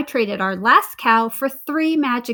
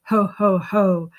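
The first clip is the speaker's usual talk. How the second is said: ugly laugh; 3 semitones lower, 3 dB louder, slower than usual. A narrator's reading. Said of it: "laughed an ugly laugh".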